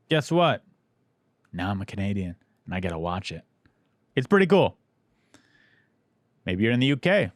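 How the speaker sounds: conversational sponsor read; easygoing host-read advert; podcast ad read. Real, not acted. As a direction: pitch it casually to listeners, with punched key phrases. Reads the sponsor ad.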